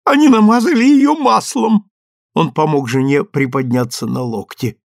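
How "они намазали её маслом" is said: high, loud thrilled father; excited new father. A narrator's reading. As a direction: marvel out loud. Ed excited over newborn.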